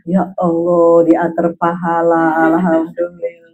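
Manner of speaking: low, slow pious murmur; acted patient husband counting blessings; placid, low thankfulness under a scolding; serene acceptance.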